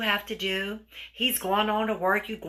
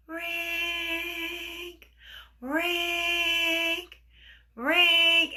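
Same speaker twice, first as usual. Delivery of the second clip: three high, drawn-out rings on one note; imitated phone ringing; 8 semitones higher, much slower than usual. The phone rings again during dinner, insistent imitated ringing.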